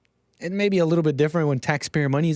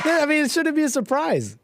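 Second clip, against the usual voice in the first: laughing; 13 semitones higher than usual. Real, not acted. Laughing mock agreement.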